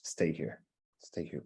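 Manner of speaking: ordinary talk, nothing marked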